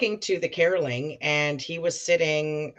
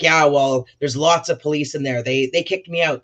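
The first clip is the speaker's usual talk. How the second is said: louder, excited retold rant; a lightly voiced Donald, worked up; imitating Donald; 6 dB louder than usual. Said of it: "He's like".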